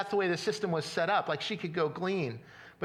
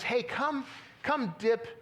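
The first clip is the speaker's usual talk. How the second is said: higher-pitched, welcoming invitation; inviting call; 6 semitones higher, slower than usual. Retold or imitated. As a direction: call someone over to share food. Acts out Boaz inviting Ruth.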